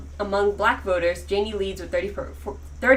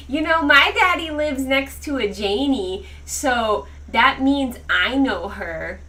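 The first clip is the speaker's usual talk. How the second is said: mock kindergartner brag; 4 semitones higher, 4 dB louder, slower than usual. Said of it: "he'd be like".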